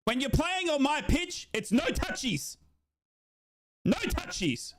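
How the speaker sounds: high, slow mock referee scolding; lightly sung-song schoolteacher referee; prissy referee. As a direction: play a fussy ref telling players off. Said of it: "and the referee says".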